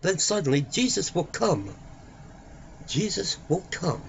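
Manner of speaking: normal talking voice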